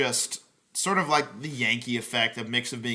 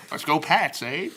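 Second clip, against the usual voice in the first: hammed-up Boston accent, a bit louder and higher; Ted Boston impression; 4 semitones higher, 4 dB louder than usual. Joking to podcast friends, doing Ted in a hammed-up Boston accent. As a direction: play a loud Boston bro cheering in a thick Boston accent. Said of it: "That's a pretty good Ted impression".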